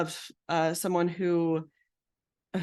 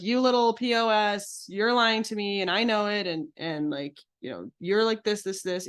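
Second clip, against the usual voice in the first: aggressive insult; 2 semitones higher than usual. Shown as a demonstration. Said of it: "Aggressive would be like".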